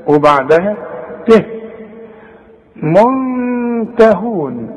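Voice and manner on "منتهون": منتهون slowly with ن hidden and nasal; slow demo. Shown as a demonstration. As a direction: draw out منتهون. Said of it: "شوف".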